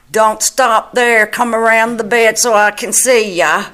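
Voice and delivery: imitated call across a room. Retells him calling visitors round the bed.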